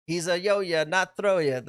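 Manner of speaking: "Throya" with a th sound at the start, lightly imitated; quoting the commentator's slip. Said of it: "K G saying".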